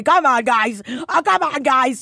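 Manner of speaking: high, loud mock scolding; playful high protest. Real, not acted. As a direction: tease them with a high come on. Teasing the audience.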